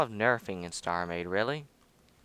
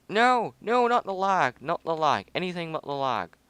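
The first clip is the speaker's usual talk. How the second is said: dismayed cry; 5 semitones higher, 3 dB louder than usual. Real, not acted. Game starts lagging.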